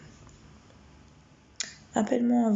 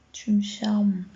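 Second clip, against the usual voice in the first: whisper; much slower than usual. Real, not acted. Reading a flirty comment.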